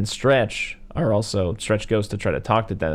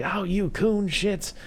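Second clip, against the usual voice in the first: high, drawn-out mock scolding; scolding father impression; 11 semitones higher, 3 dB quieter, much slower than usual. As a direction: stretch it out as an exasperated daddy. Voicing father scolding his boys.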